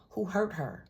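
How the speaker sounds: high, whispered, sassy dismay; a playful gasp of who-did-this; mock protective whisper. To the viewer, pretending to be the man protecting her: a sassy whisper.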